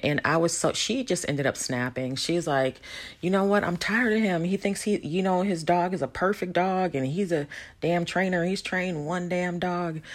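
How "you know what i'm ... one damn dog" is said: higher-pitched mock rant, imitating her going off; wife fed up with husband's dog bragging, mock angry rant; mock outburst. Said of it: "And she just went off".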